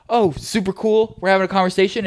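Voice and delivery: drip sarcasm at the brother; mock sarcasm. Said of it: "I was like".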